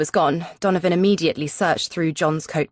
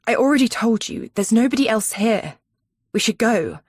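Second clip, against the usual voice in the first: raised, pressing voice, desperate to leave; urgent insistence; 5 semitones higher, 3 dB louder than usual. Acted. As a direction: push hard, voice up and louder. Tense standoff with captor.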